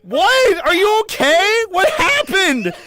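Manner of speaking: loud, high bewildered yelling; high, accusing panic; alarmed shouting. Real, not acted. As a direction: cry out in baffled alarm. Alarmed at inflated avatar.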